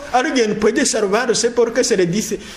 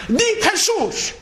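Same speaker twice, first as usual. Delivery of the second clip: commanding cry; 10 semitones higher, slower than usual. Retold or imitated. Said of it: "y se le decía".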